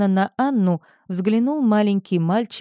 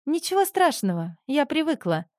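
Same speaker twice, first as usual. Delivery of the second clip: sighing; 8 semitones higher than usual. A narrator's reading. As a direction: sigh it out, resigned. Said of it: "вдруг вздохнула Анжелика".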